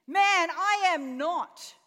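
loud, high, drawn-out denial; shouted denial. Acted. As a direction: deny it slowly at full voice. Peter's acted denial.

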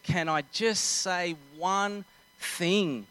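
slow, drawn-out plea to be heard; imitated pleading. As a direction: stretch out each word, imitating an exasperated mum. Mum mid-argument, pleading to speak.

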